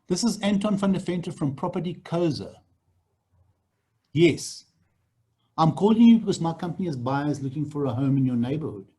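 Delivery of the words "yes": friendly, upbeat phone pitch; a sales agent opening a call; cold call script demo. Shown as a demonstration. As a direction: read it like a real cold call. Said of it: "So this is what you say".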